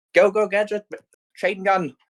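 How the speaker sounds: high gleeful command; battle cry. Acted. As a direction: call the drone into action. Yelling in battle.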